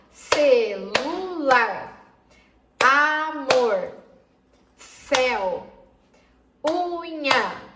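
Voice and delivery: each word split into syllables, celular as ce-lu-lar, drawn out; spoken slowly. Shown as a demonstration. Teacher showing children how to hear syllables, slowly and separated. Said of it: "quando nós falamos pausadamente".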